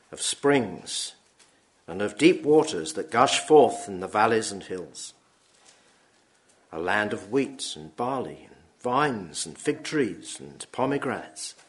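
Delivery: measured, solemn Bible reading; scripture reading. Acted. Preacher reading Deuteronomy to the congregation, solemn reading.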